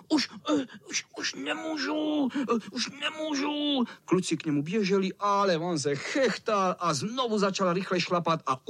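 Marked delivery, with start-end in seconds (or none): 0.1-3.8 fake exhaustion. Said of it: "A potom křičel".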